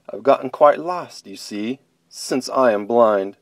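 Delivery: polite, shy little rabbit asking help; small lost bunny pleading; timid bunny voice. Acted.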